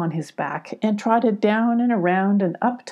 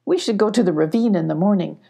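confident; faster than usual. Acted. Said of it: "announced Abby confidently".

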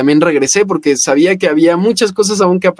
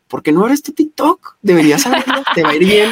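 lightly imitated friend, higher-pitched urging; Gaby Mesa; 6 semitones higher than usual. Friend urging him to open an account, higher encouraging voice. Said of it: "fue la que me dijo".

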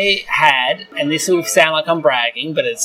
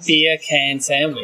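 slow careful; much slower than usual. Shown as a demonstration. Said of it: "like a can of beer and sandwich".

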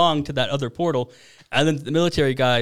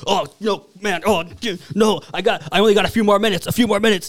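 panicky Rick; 6 semitones higher than usual. Retold or imitated. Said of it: "Rick's all like".

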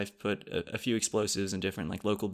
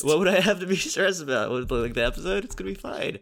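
stressed; 6 semitones higher than usual. Acted. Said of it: "You sound so stressed".

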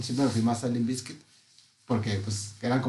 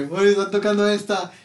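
higher, mildly excited quote; retold excitement; 8 semitones higher, 4 dB louder than usual. Retelling turning round at the concert, excited. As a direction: re-enact thrilled recognition of a song. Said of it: "Nomás volteaba y como que".

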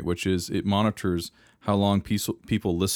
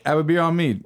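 higher, louder, hammed-up Australian accent; bad Australian accent; 8 semitones higher, 4 dB louder than usual. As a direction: attempt an Australian barman, badly. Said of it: "I can't do an Australian accent".

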